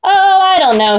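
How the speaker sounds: 1 trying to sound terrifying. Acted. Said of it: "trying to sound terrifying".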